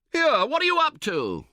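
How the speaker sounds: high, loud indignant call across the tent. Acted. Camper calls out to his tentmate spoiling the pitch, loud and high. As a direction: yell at him over the flopping canvas. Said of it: "you call out".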